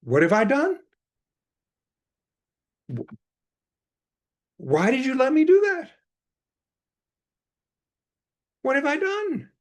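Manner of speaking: high, loud cry of alarm; acted-out dismay. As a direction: wail the question as an alarmed master, acted out. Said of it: "Erich acted all this out".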